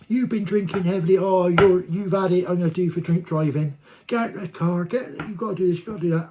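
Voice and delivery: hammed-up angry cop barking at him; retold shouting. Policewoman ordering the driver out, imitated loud shouting. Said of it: "while she's shouting and screaming".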